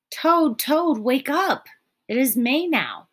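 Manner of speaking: high, loud and eager; excited calling. A narrator's reading. Frog excitedly waking Toad in bed. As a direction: wake him with the news.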